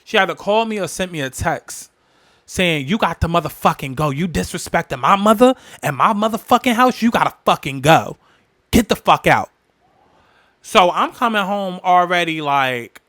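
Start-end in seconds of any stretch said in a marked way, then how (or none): 2.9-9.5 retold angry yelling, louder toward the end; mock the aunt throwing her out; aunt going off. Aunt kicking her out of the house, retold angry yelling. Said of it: "my aunt is going off on me".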